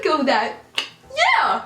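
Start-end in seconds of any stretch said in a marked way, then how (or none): 1.2-1.6 very high, loud squeak; squeaked nervous lie. Retold or imitated. Teen lying to officer about who lives here, squeaked yes. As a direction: blurt it in a panicked squeal.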